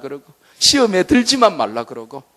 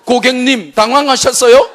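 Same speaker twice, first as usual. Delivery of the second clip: higher, louder teasing parody with a laugh; comedy catchphrase; 9 semitones higher, 7 dB louder than usual. Acted. Preacher quoting a comedy catchphrase, teasing parody. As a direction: mimic the famous gag line. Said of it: "comedy catchphrase parody".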